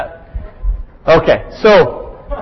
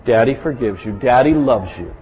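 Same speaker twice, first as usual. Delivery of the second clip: tender reassurance; 6 semitones lower, 5 dB quieter than usual. Retold or imitated. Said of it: "many times I'll say".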